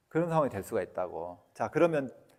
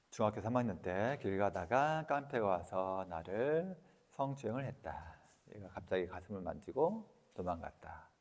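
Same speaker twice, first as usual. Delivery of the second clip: demo affirmation; 4 semitones lower, 8 dB quieter than usual. Shown as a demonstration. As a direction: read it like a quiet self-affirmation. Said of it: "이렇게 해도 돼".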